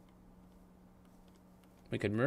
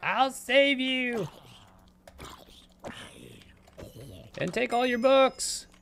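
higher slow hammed-up heroic cry; mock hero; 12 semitones higher, slower than usual. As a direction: play the fake hero, slowly.

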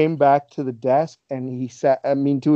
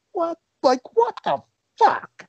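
imitated disappointment. Retelling wrestler finding his food gone, disappointed disbelief. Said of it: "was so disappointed".

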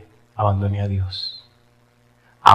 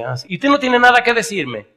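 curious lady; 12 semitones higher than usual. Retold or imitated. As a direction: press him like a nosy lady, pitched up. (señora preguntona, voz más aguda)

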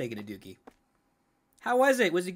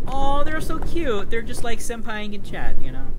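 gushing; 10 dB louder than usual. Real, not acted. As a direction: squeal it out like a fan. Gushing over cute characters.

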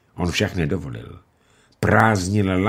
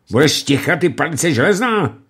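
high, loud shout; furious shout; angry yell; 8 semitones higher, 4 dB louder than usual. Acted. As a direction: bark him into silence. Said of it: "křikl Lumej".

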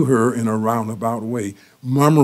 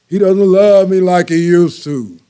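whiny complaint; 6 semitones higher, 5 dB louder than usual. Retold or imitated. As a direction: moan it to the elders, hurt. Wife repeats complaint.

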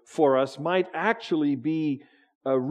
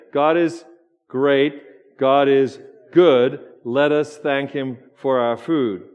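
slow, loud group prayer; 6 dB louder, slower than usual. Shown as a demonstration. Pastor leading the congregation in a slow, loud grace. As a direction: lead the prayer slow and loud for all to join. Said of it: "chime in with me".

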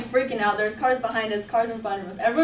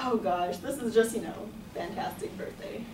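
sarcastic; 7 dB quieter than usual. Retold or imitated. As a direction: mutter it, anything but fantastic. Sleeping in car on birthday.

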